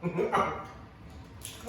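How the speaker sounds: laughing through the words; giggling while speaking. Real, not acted.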